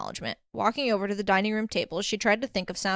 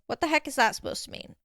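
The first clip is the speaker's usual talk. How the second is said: higher-pitched, bewildered question; baffled demand; 5 semitones higher than usual. Acted. Danny's relay demanding Jazz explain, baffled. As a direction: ask it in exasperated confusion.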